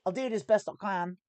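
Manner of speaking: put-on amateur Aussie accent; Australian accent. Streamer promising his best, fake Australian accent. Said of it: "talking in an Australian accent".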